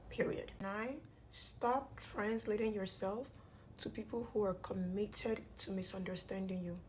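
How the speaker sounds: talking through clenched teeth; jaw wired shut. Real, not acted. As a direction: speak with teeth wired together. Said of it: "My jaw is wired shut".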